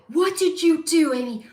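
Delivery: high, indignant mock yell; retold scream. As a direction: imitate them screaming at you. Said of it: "they scream at me".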